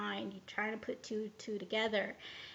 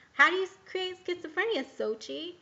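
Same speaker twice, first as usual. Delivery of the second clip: higher, louder, fast, uncanny questioning voice; intruding inner voice; 6 semitones higher, 5 dB louder than usual. Retold or imitated. Heard inside her head, quick and higher, prying. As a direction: mimic the strange voice prying at you. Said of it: "the very first thing that I heard was".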